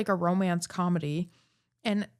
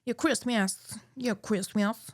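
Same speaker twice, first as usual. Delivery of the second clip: Cable Guy lisp; 3 semitones higher, slower than usual. Retold or imitated. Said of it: "with the lisp from The Cable Guy".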